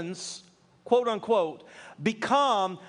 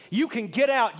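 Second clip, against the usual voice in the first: firm, slightly raised order to leave; quoting a pastor telling people to leave, firm and raised; stern quoted rebuke; 3 semitones higher, 3 dB louder than usual. Retold or imitated. Pastor ordering Democrats out, a mild mock rebuke.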